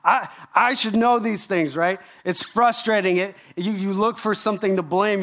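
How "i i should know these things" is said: higher-pitched mock complaint; aggrieved protest, hammed up a little; frustrated. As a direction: act out a mildly indignant "why me" whine.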